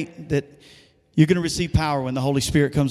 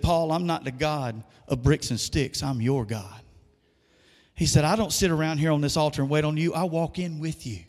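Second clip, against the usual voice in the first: God's voice, retold; 5 dB quieter than usual. Preacher retells God speaking to him in worship, softly. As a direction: hush it like a gentle rebuke.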